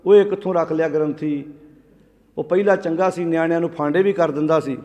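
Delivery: low-pitched imitation of grumbling; understated retold grumble; mock grumbling. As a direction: grumble lightly, as if complaining on the way out. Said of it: "ਬੁੜਬੁੜ ਕਰਦੇ ਕਹਿਣਾ".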